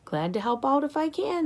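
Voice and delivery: high, eager little squeak; small hamster voice offering help. A narrator's reading. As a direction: chirp it up like a hamster. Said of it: "I squeaked to her".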